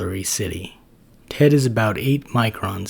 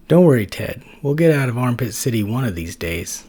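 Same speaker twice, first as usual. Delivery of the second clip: louder, upbeat buddy comfort; reassuring Max; 3 semitones higher, 4 dB louder than usual. Acted. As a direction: cheer up a glum friend.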